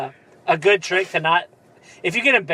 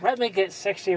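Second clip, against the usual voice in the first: softer mock Asian accent with swapped L's and R's; 2 semitones higher, 6 dB quieter than usual. Quoting the customer at the counter, mock Asian accent. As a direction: badly fake an Asian accent, softly. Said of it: "The L's and R's is all I know".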